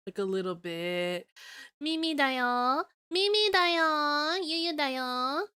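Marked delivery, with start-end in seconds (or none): 1.8-5.5 sing-song mascot-style intro; cutesy catchphrase. Pretend. Chanting cutesy streamer catchphrase.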